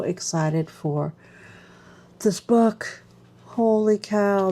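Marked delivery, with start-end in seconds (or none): 2.2-4.5 squeal of delight. Real, not acted. Thrilled at the new notebook.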